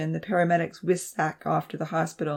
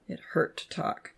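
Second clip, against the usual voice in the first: whispered; 7 dB quieter than usual. A narrator's reading. Narration dropped to whisper.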